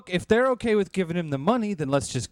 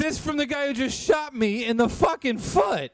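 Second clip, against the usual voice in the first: angry shout; 8 semitones higher than usual. Acted. Shot man snaps sarcastically.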